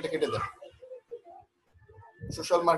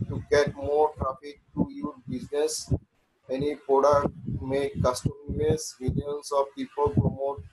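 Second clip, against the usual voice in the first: slow dictation; much slower than usual. Acted. Dictates gig text slowly.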